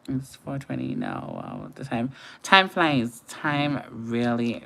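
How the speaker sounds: usual speaking voice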